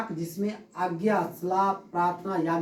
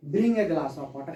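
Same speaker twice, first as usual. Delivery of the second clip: giving an order; much slower than usual. Shown as a demonstration. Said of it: "order दे रहे हैं".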